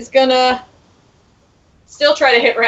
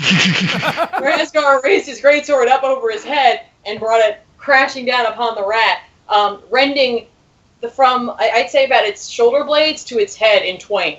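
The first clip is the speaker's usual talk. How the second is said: epic narration. A narrator's reading. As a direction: tell the kill like an epic saga. DM narrates the killing blow.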